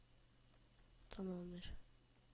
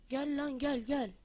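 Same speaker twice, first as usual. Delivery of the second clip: taunting shout; 2 semitones higher, 5 dB louder than usual. Acted. Gamer taunts a mob, boasting of his iron sword, shouting. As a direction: dare them to come at you.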